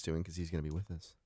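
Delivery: hushed secret whisper; breathy whisper, no voice. Real, not acted.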